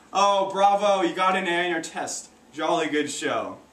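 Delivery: lightly put-on British congratulation; a hint of theatrical British approval; British accent. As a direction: applaud in a mock British voice. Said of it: "I talked like I was British".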